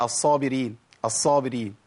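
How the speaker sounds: الصابرين with the ص cut to one; undoubled sad mistake. Shown as a demonstration. Teacher repeating the mistake, short single sad. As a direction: say الصابرين with no hold on the ص. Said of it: "فين الصادين؟".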